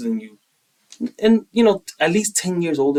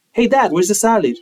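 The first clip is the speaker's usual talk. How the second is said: put-on higher-pitched voice of a kid asking; son's question; 7 semitones higher, 4 dB louder than usual. Son asking his tough dad for the salad, high-pitched. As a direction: pitch it up, a light eager question. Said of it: "he talks like this".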